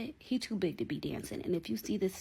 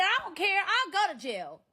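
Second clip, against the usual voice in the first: high, loud, reckless defiance; shouting she doesn't care about jail; defiant yell; 12 semitones higher, 7 dB louder than usual. Retold or imitated. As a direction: throw it back at him, louder. Defiant reply in phone fight.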